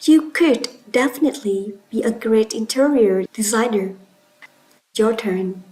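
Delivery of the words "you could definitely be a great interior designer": "could" stressed and set apart for repetition. Shown as a demonstration. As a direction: lean on "could" to show certainty. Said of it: "By stretching could".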